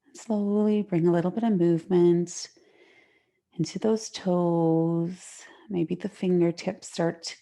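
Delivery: gentle, unhurried yoga guidance with long pauses; guided relaxation. Real, not acted. Yoga teacher settling students into the mat, guided relaxation.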